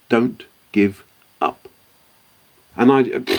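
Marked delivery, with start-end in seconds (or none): 0.1-1.7 earnest encouragement. Retold or imitated. Gene Cernan's advice to the young founder, slow and earnest. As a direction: lean in and say it slowly like a hero to a kid. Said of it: "But it was the way he looked at me, and when he said".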